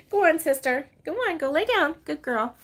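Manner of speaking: high, loud dog command; firm friendly pet command; telling the dog. Real, not acted. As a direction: shoo the dog to bed.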